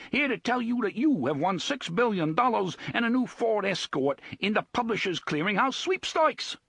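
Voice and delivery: put-on plummy, bogus British accent, high and bellowed. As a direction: bellow it like a fake posh British TV host. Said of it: "adopting a plummy and completely bogus British accent".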